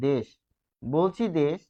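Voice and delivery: দেশ said desh, ending hard on শ; no vowel after শ in দেশ; pronunciation demo. Shown as a demonstration. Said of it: "লিখছি হসন্ত ছাড়া". (দেশ উচ্চারণে শেষে থেমে যাওয়া)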